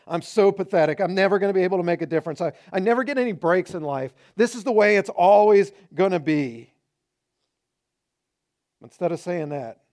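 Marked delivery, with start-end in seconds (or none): 0.1-6.7 self-pity. Retold or imitated. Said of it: "We'll say things over ourselves like".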